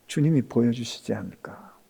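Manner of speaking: hushed, unvoiced wonder; whisper. Real, not acted. Pastor whispering to the congregation. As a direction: breathe the question.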